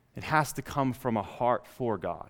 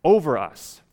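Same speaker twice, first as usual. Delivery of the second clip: loud, slow, stubborn insistence; determined demand; 3 semitones higher, 5 dB louder, slower than usual. Retold or imitated. People insisting on a king, slow loud determination. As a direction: dig your heels in. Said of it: "Notice the determination".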